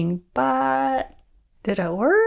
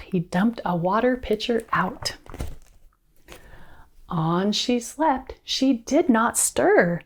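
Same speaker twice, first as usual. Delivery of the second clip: measured storybook read-aloud; story narration. A narrator's reading. Reader telling children a rhymed fairy tale, story narration. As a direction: pace the rhyme out for young listeners.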